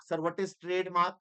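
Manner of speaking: slow, drawn-out student asking the teacher; mock student question. Teacher mimicking a student asking about trademarks, drawn out slowly. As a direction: play a puzzled student dragging out the question.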